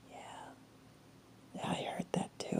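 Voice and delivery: imitated whispering sleep talker; hushed mimicry of secret pillow talk; mumbling into pillow. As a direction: whisper it very softly, half asleep. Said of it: "mumbling into her pillow, g-, going".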